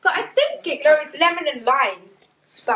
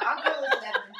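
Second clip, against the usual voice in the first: laughing while choosing lemon; 4 dB quieter than usual. Real, not acted. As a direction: chuckle through the words.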